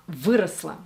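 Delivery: "выросла" with "вы" stressed; first-syllable stress. Shown as a demonstration. Coach repeating the correct word for viewers, first-syllable stress. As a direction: lean on "вы" in "выросла". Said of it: "emphasis should be on the first syllable".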